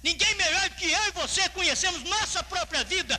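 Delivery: high, emphatic pulpit declaration; preaching. Real, not acted. Preacher assuring congregation God knows them, emphatic preaching. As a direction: drive the conclusion home, stretching the ending. Preacher concludes point forcefully.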